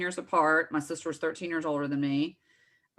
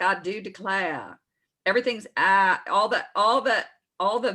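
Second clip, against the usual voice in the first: southern belle; 3 semitones higher, 4 dB louder than usual. Retold or imitated. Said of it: "It's like".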